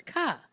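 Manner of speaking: "ka" left open on its vowel; open syllable. Shown as a demonstration. Teacher showing how we could pronounce it, open syllable. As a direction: sound out "ka", no closing consonant. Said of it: "We could pronounce it as".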